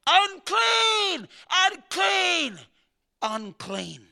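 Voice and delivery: high, drawn-out cry of unclean, fading away; leper crying out. Acted. Preacher voicing the leper crying to passersby, mock wail. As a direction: call it out like an outcast leper. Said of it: "and shall cry".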